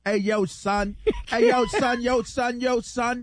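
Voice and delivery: hammed-up street talk. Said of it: "Now you sound like you're talking to us".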